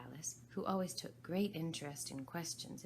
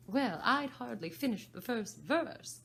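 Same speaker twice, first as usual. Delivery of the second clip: slow, high, louder Hatter; indignant hatter; 7 semitones higher, 8 dB louder than usual. Acted. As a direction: tell the grievance as the Hatter. Hatter voiced in story.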